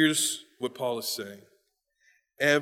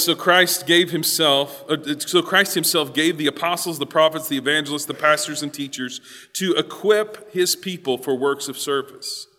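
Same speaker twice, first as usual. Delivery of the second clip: scripture reading; 6 dB louder than usual. Real, not acted. Reads scripture aloud to congregation.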